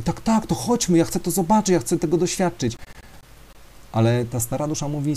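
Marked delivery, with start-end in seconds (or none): 0.0-2.8 much higher, bubbling with eagerness; eager excitement. Acted. Young soul eagerly begs the old souls to go, excited and high. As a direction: jump at the chance like a thrilled child.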